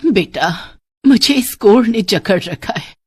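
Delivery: put-on ailing old woman pleading for relief; suffering old woman. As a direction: beg the girl to end your misery. (पीड़ित बुढ़िया की विनती)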